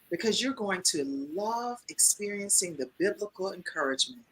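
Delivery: soft, slow, almost hypnotic date voice. Shown as a demonstration. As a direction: sell it softly, lingering over the phrases. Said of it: "represent you in a date voice".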